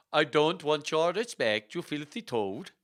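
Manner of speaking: indignant Swedish lady, drawn out; raging Swedish accent. Acted. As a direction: rage in a hammy Swedish accent. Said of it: "she raged".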